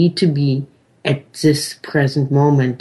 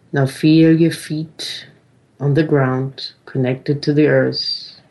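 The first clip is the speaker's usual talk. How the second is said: calm grounding exercise. Acted. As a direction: ease them back into the body. Feel your feet on the ground.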